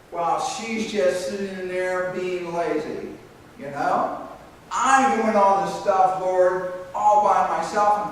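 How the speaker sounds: mildly hammed-up martyr complaining to the Lord; a hint of self-pity. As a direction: whine a little about doing it all alone. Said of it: "Martha syndrome is where".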